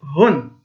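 هن as hun with an h sound; tanween on haa. Shown as a demonstration. Teacher contrasting haa with ta marbuta, clear hun for هن. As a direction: pronounce هن as hun, sounding the final n. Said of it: "ولكن هنا نقول".

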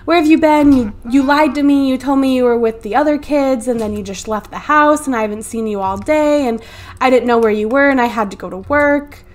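husband scolding his wife for leaving, mildly angry; arguing husband. Acted. Husband berating wife for vanishing all day, mock angry. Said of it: "he is going to argue with her".

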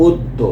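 অদ্য as "oddo", closed first vowel; closed o pronunciation. Shown as a demonstration. Teacher asks what to write, modelling অদ্য as "oddo". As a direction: say অদ্য starting with o as in "go". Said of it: "এটা কি লিখবো".

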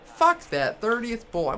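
high, loud angry outburst; furious shout. Real, not acted. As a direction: explode at the result. Raging at final result.

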